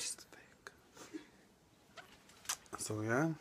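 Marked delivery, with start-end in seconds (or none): 0.0-0.7 whispering. Real, not acted. Aside about friend.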